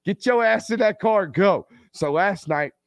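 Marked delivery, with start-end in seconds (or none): 0.0-1.7 emphatic refusal. Real, not acted. Dad telling parents to rush to hospital, firm higher command. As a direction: snap at them to go now.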